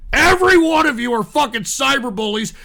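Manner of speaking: ordinary delivery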